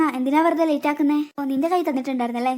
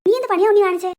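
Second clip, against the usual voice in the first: higher, louder scolding; angry scolding; 4 semitones higher, 5 dB louder than usual. Acted. Older sister scolds Unni for sending Ashi away, angry. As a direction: tell him off sharply. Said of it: "എന്താ എന്നോട് ചൂടാവുന്നേ?".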